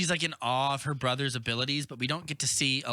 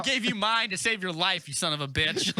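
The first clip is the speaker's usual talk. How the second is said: higher-pitched, hammed-up protest; mock indignant outburst; 5 semitones higher than usual. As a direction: play an affronted action hero. Acted movie quarrel over oxygen.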